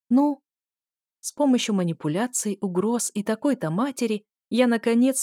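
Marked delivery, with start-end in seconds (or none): 0.1-0.4 impatient demand. Acted. Demanding answer from barman.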